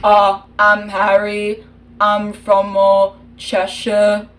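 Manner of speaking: put-on British accent, taken slowly this time. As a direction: redo Harry in British, nice and slow. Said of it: "you did Harry too fast".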